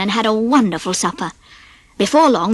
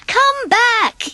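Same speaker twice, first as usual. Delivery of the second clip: much higher, mock call after the boys; yell; 13 semitones higher than usual. Mickey calls the boys back from the stream, raised up high. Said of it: "yelled Mickey".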